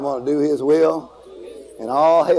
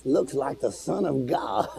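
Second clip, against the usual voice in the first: awed hush; 3 semitones lower, 8 dB quieter, slower than usual. Acted. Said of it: "He said".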